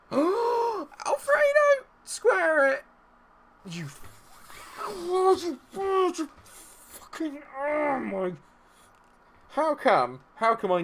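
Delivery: very high, loud, stretched cries; frantic scream. Real, not acted. Gamer screams as his striker misses a sure goal, frantic. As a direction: scream in disbelief at the miss.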